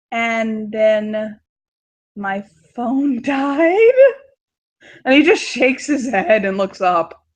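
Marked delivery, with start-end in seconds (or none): 0.1-3.9 slow, drawn-out mock sob on died; whiny mock cry. Daughter to her dad, whining in mock tears. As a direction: fake a pitiful wail to get off easy.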